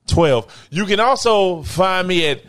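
mock-grand showman's announcement; big deliberate announcer delivery, milking each plug. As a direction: introduce yourself like a hype emcee. Mock grand self-introduction and plugs.

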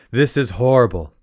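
hammed-up communal lament, punched out; dismayed outcry. Villagers rushing out over the son's injury, loud mock dismay. Villagers cry out at broken leg.

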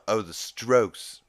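a hint of Stewie catching his mistake; Stewie's realization. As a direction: drag out the dawning "Oh". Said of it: "and he's like".

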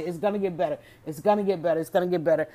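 coaxing yourself to hang on; soothing self-talk. Retold or imitated. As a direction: talk yourself calmly through it. Coaxing herself to keep watching.

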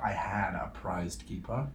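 soft whisper, slowly. Real, not acted. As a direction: hush as if confiding. Unvoiced whisper.

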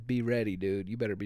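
normal talking voice

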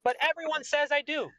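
high, proud, boastful king voice; arrogant king. Acted. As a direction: play the smug king who only cares about money.

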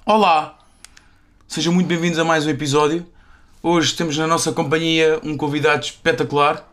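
bright announcer welcome; host intro. Acted. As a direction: present the guest like a show host.

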